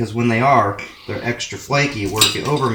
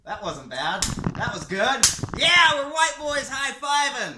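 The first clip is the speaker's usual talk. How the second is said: squeaky high voice; 13 semitones higher, 4 dB quieter than usual. Pretend. High mock voice after high five.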